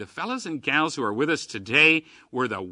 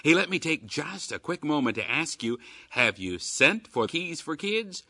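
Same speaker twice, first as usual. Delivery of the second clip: upbeat radio promo read; chipper 1950s ad. Acted. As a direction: sell it like an old radio ad. Radio promo read for Keys for Kids.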